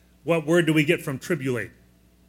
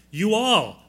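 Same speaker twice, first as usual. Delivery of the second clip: Southern you all; 4 semitones higher, 3 dB louder than usual. Shown as a demonstration. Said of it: "down in Texas or down in the South".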